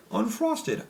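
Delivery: high, slow, sneering drawl on Unfrosted; mocking disdain. Real, not acted. Mocking a disliked movie.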